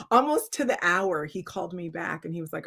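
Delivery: normal talking voice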